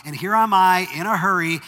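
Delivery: usual speaking voice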